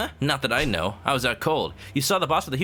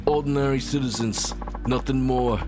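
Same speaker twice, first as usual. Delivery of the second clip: lightly voiced mysterious boss; calm boss voice. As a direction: command calmly from above.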